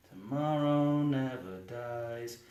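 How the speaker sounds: slow, low, soft title read; mock title announcer. Presenting the film title slowly, mock announcer. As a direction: intone it like a trailer title.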